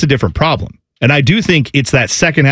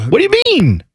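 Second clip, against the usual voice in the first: incredulous. Real, not acted. Incredulous reply in banter.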